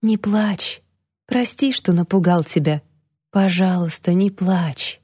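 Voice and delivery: calm her tears gently; tender comfort. Acted. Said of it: "нежно прошептал он".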